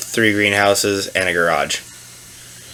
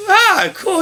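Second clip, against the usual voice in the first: very high, airy cop impression; imitated cop reply. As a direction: react high-pitched, as the cop in the tale. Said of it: "And he's like".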